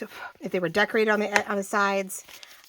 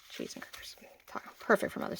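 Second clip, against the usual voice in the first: whisper; 9 dB quieter than usual. Real, not acted. Aside about a Mother's Day idea.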